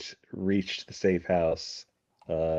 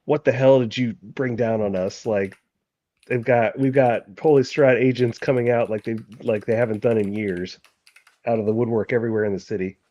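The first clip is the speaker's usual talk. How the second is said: mildly freaked-out, higher-pitched scolding; freaking out; 3 semitones higher, 5 dB louder than usual. Acted. Marquis confronting Sola over agents in the city, mildly freaking out. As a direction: voice lightly raised, demanding answers. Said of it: "he's kind of freaking out".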